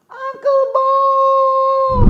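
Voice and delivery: very high, loud drawn-out call; loud shout. Shown as a demonstration. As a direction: shout his name with everything. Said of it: "Sekali lagi ngomong".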